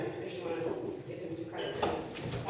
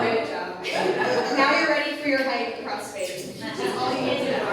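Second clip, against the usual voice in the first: put-on higher, louder praise for little kids; kindergarten teacher voice; 3 semitones higher, 5 dB louder than usual. Shown as a demonstration. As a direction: cheer the class like a teacher. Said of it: "that's my, um, kindergarten voice".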